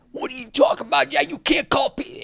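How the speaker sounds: very high, fast, furious yelling; berserk outburst. Retold or imitated. Judge raging at Simon over the slur, frantic high yelling. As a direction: lose it completely at him. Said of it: "went berserk".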